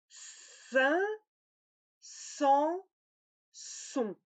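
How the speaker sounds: sein, sans, son each nasal and distinct; three nasal vowels. Shown as a demonstration. Teacher sounding out three nasal vowels. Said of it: "les trois nasales".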